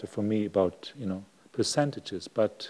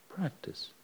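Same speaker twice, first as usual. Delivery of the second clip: whispered; 7 semitones higher, 12 dB quieter than usual. Shown as a demonstration. Teacher ending a patient slow demonstration, whispered. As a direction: voice drops away to a whisper.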